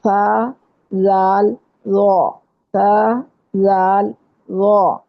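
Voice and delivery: سا زال وا said gently with no whistle; soft letter sounds. Shown as a demonstration. Teacher demonstrating to her students the soft letters. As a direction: sound out سا، زال softly, tongue tip on the teeth edge. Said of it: "بہت نرمی سے ادا ہوتے ہیں".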